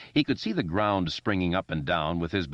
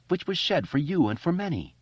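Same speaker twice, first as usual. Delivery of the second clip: mock priestly intoning; 11 semitones higher than usual. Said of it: "Richie thought".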